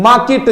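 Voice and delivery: मार्केट with the R left silent; habitual pronunciation. Shown as a demonstration. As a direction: say मार्केट as "maa-kit". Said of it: "मेरे मुंह से मार्केट ही निकलेगा".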